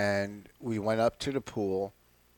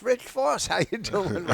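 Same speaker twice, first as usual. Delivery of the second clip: mock yell; 7 semitones higher than usual. Stranger calling to a comic from the street at a red light, mock yell. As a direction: imitate someone yelling a greeting, without real volume. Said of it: "someone yells".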